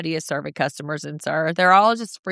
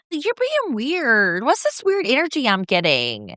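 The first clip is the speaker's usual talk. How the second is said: mock-accusing Angelica; 6 semitones higher than usual. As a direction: stretch it out high, as an overdramatic accuser. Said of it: "But Angelica's like".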